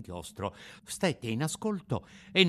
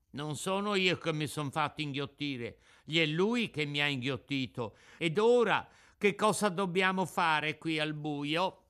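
high puppet voice, pleading for answers; protesting puppet; 5 semitones higher, 3 dB louder than usual. Acted.

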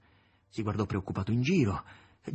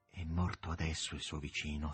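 whisper; 4 semitones lower, 5 dB quieter than usual. A narrator's reading. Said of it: "sussurrò Praskovia Fyodorovna".

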